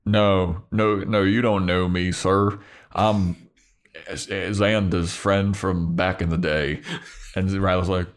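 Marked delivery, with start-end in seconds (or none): 0.1-6.8 lightly put-on weird Southern accent; bad Southern accent, a hint of drawl; Spike. Bluffing to the soldier who may know him, weird Southern accent. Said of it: "He puts on, like, a weird Southern accent".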